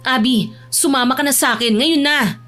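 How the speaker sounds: firm order. Acted. Older cousin orders Abby to leave with her, firm. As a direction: order her to come along.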